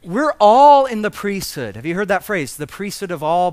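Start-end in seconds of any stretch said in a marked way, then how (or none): 0.0-1.8 loud preaching of Luther's words; a booming declaration from the pulpit; emphatic loud proclamation. Retold or imitated. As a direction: proclaim it loudly, insisting. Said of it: "and he says".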